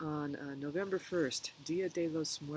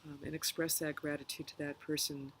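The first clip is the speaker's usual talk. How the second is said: calm meditation guide, pausing between phrases; unhurried guided reflection with long pauses. Real, not acted. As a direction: gently lead listeners through a reflection, leaving room to breathe.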